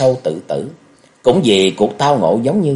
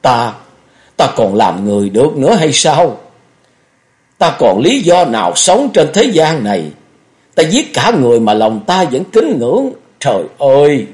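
raised, high wail of despair; loud, tortured self-reproach; anguished roaring; 4 semitones higher, 4 dB louder than usual. A narrator's reading. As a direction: cry out to heaven in torment. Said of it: "Chàng kêu gầm lên".

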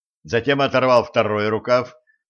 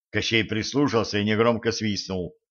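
usual speaking voice

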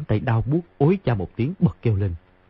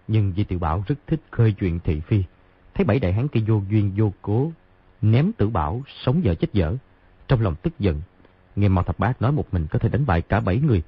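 plain reading voice

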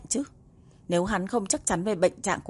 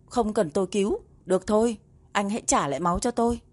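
angry. Acted. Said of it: "Ly Tâm tức giận".

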